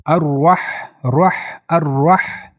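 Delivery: thick, full rolled r in الرح; heavy r. Shown as a demonstration. Teacher drilling heavy ra in الرح, thick rolled r. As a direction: make the r of الرح heavy and held. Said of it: "را غوص است".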